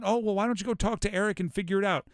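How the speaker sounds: mock the pushover coach who passes the buck; too-nice coach. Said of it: "much more mean. Not".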